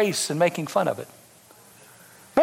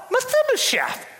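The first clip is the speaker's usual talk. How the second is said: sudden high whispered name; stage whisper. Real, not acted. Preacher calling Mephibosheth in a sudden whisper. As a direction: hush the room with a whisper.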